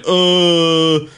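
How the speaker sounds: high, drawn-out dimwit voice; clueless dope. Retold or imitated. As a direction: play yourself as a slow, clueless learner. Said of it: "And I'm like".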